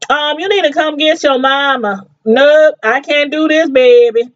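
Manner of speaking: imitated upset New Orleans mama; New Orleans accent. Imitating the mom calling Toya for a ride, New Orleans accent. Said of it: "Toya got that accent too".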